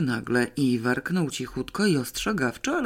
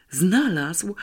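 whisper yelling; 5 semitones higher than usual. A narrator's reading. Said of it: "wykrzyknęła szeptem Janeczka".

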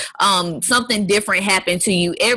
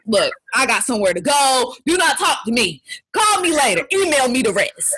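a hint of a curt New Yorker brushing someone off; mock rude New Yorker, laughing at the end; brusque New Yorker; 4 semitones higher than usual. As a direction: rattle it off like you're in a hurry. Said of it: "in New York, up north, it's like".

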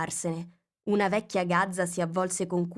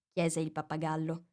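usual speaking voice

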